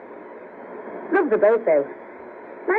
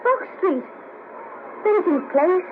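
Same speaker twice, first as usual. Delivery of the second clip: higher-pitched, surprised question; surprised echo; 7 semitones higher, slower than usual. Acted. Woman hearing where the stranger was born, surprised. He names her own street.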